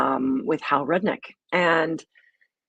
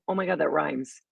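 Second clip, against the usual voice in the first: ordinary delivery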